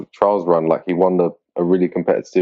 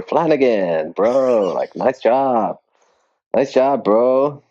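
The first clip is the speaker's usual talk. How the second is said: higher, slow nasal American bro voice; nasal drunk American bro accent; 5 semitones higher, much slower than usual. Retold or imitated. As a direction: imitate a tipsy American fan, nasal. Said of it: "I love the nasal choice for it".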